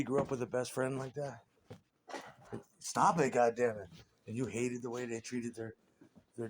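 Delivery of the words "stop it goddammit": mock scolding. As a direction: scold the dog like a fed-up owner. Voicing friend's family scolding the dog.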